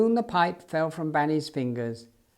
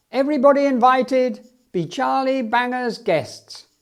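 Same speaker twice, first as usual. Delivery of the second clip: circus barker; 7 semitones higher, 6 dB louder than usual. Acted. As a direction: invite the whole town like a ringmaster. Circus owner announces a free show.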